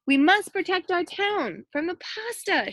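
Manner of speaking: rally the town like a mayor; shouting mayor. A narrator's reading. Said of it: "shouted the mayor".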